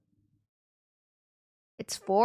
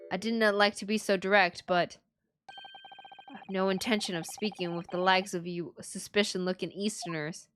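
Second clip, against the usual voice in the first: Scottish governor; 2 semitones lower than usual. Acted. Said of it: "What is this accent?".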